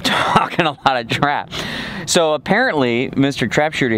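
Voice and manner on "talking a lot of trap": laughing repeat. Retold or imitated. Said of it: "Or as Carson said".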